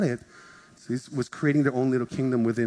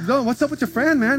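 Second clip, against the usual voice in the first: mock excited; 12 semitones higher, 4 dB louder than usual. Confronting the friend, voiced high.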